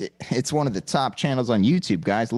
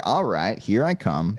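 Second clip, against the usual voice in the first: lower, weary-compliant reply; resigned dad; 4 semitones lower, slower than usual. Retold or imitated. Dad retells answering his kid, low resigned voice. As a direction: give in, pitch dropped. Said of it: "And I was like".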